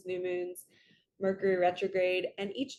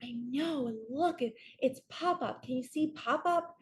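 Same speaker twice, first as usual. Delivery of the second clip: higher, eager little girl pretending; a hint of a four-year-old lost in make-believe; little niece voice; 5 semitones higher than usual. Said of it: "And she was like".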